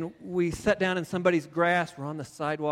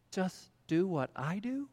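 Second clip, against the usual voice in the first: softer, slow, mildly accusing echo; incredulous quote; 7 dB quieter than usual. Retold or imitated. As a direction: throw his words back at him quietly. Fiancée quoting him back, in pain.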